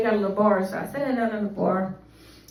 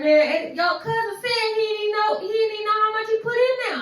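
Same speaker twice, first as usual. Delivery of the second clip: high, sing-song whine, faster at the end; whiny sing-song protest; 10 semitones higher than usual. Retold or imitated. Wife to husband blaming his cousin, high whiny sing-song. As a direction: whine it like a kid caught out.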